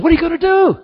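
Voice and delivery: high, loud baffled question; alarmed question. Acted. Alarmed friend voiced in a story.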